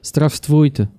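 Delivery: sounding it out piece by piece; hesitant beginner reading Russian; halting reading. Real, not acted. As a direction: stretch and split the Russian word, then retry it. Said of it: "I can't read it that well yet".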